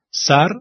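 سر with a short front "a" as in "cat"; short open front vowel in سر; short fatha. Shown as a demonstration. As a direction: say سر briefly, mouth spread horizontally.

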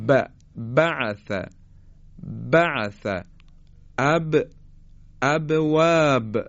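firm, spaced-out demo of «ب» in «بعث» and «ابواب»; slow Arabic articulation of «ب», both lips closing; wet-lip B. Shown as a demonstration. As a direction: press the moist inner lips together for a crisp B in «اب». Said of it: "قسمت تری لبها حرف با".

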